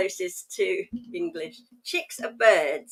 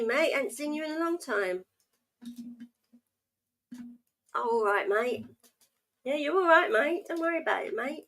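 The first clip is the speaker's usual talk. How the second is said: mock London slang; 3 semitones higher than usual. Shown as a demonstration. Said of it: "Everything's mate".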